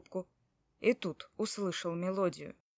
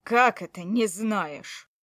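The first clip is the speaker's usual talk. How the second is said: angry disbelief; 6 dB louder, slower than usual. Acted. Husband demands answer.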